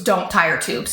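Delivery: mother imitating the calm doctor in the operating room; calm doctor's order. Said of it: "She goes".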